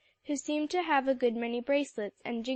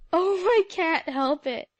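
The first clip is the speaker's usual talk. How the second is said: gusty exclamation; 5 semitones higher, 7 dB louder than usual. A narrator's reading. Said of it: "exclaimed Alexia gustily".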